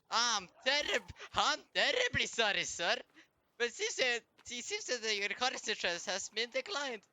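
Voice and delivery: a hint of a fussy official; mock polite clerk. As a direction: decline him like a smug receptionist. Mock polite refusal to enemy.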